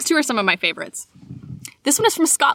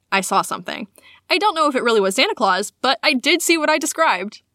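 measured read-aloud storytelling; story narration. A narrator's reading. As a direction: read it aloud like a personal tale. Reads a listener's sighting aloud.

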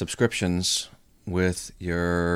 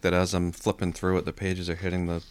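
paper noise. Real, not acted. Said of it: "I'm sorry for the paper noise".

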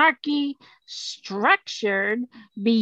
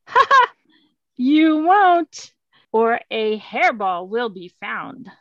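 gloating cat king; 4 dB louder, slower than usual. Acted. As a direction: crow it out like a smug royal cat.

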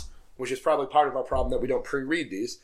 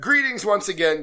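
a lighter second try, somewhat higher and louder; Robin Leach impression; 5 semitones higher, 3 dB louder than usual. Retrying the fan letter as Robin Leach. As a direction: start the letter again as a showy host. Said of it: "I'm Robin Leach".

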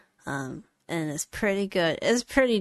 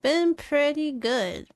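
voice cracking up an octave; 9 semitones higher, slower than usual. Real, not acted. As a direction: voice cracks up high. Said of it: "sorry, my voice cracked".

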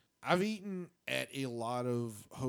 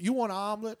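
a touch higher, doting asking; imitating the room service lady; 5 semitones higher, 5 dB louder, faster than usual. Retelling the hotel lady taking his order, light doting voice. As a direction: ask like a fussy auntie. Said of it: "This woman definitely sounds like she's Korean".

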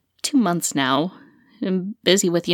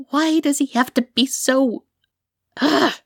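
exasperated; 5 semitones higher than usual. Acted. Venting alone after the quarrel.

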